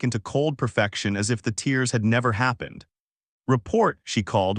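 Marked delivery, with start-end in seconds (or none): 3.5-4.0 imperial command. Acted. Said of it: "voice suddenly imperial".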